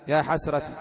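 "حسرتي" ending in a short kasra; short final i. Shown as a demonstration. Teacher demonstrates dialect forms to students, short final i on "حسرتي". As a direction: say "حسرتي" as ḥasrati, final vowel kept short. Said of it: "تقدر نطبق عليها اللغات".

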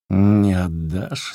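slow, husky, menacing question; hoarse question. A narrator's reading. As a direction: rasp it out slowly. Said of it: "сипло спросил мужик".

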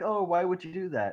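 high, hammed-up wail; mock crying. Nina crying at the guy who told, mock wail. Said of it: "she's, like, crying".

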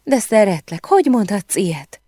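high, distressed outcry, not full volume; narrator's high-pitched acted scream; mock shriek. A narrator's reading. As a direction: cry out like a woman pleading in a quarrel. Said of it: "sikoltott Emily".

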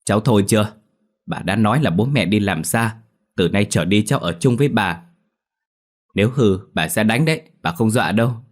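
an irritated grandmother raising her voice; grandmother scolding. Acted. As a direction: snap at the crying child to stop. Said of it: "lớn tiếng mắng".

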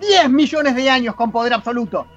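dramatic reading of the Doctor's tirade; the Sixth Doctor. Acted. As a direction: declaim an outraged speech against a corrupt civilisation. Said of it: "Buena interpretación".

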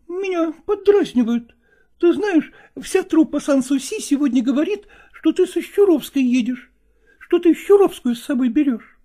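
high, reproachful female voice; jealous lover reproaching, high; jealous woman. Acted. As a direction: accuse him, pitched high. Nastina jealous.

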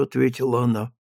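ordinary delivery, nothing marked

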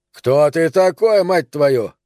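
slow, loud, angry demand; angry outburst. Acted. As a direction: snap up at the intruder. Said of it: "вскинулся Панамарь".

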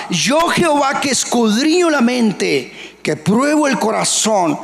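high, proclaimed divine voice; voice of God. Acted. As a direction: declare it as the Lord. Preacher voicing God.

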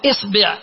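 إصبع said isbi', i in both syllables; short i twice in إصبع; kasra, then i. Shown as a demonstration. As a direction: demonstrate إصبع as IS-BI'. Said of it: "ثم تأتي إلى الكسرة تقول".

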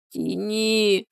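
high, stretched, restrained howl; drawn-out wail. A narrator's reading. Woman in labour begging the neighbour, drawn-out wail. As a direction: draw it out in a thin-volume wail. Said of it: "протяжным голосом завыла Людмила".

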